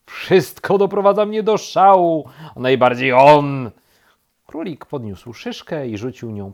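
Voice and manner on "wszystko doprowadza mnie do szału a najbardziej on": loud, high angry rant; fed-up outburst at full volume; exasperated shouting. A narrator's reading. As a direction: shout it like you've had enough. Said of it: "krzyknął królik".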